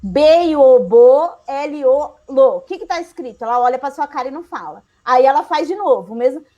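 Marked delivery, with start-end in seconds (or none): 0.0-2.6 put-on child spelling "B, I, O, bo"; sounding out letters. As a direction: say each letter then "bo", "lo". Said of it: "Pensa nessa criança".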